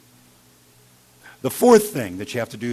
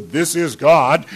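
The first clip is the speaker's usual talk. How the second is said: loud, slow, pitched-up mock proclamation; mock booming God voice; 5 semitones higher, 10 dB louder, slower than usual. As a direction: ham up a thunderous announcement. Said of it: "He doesn't go".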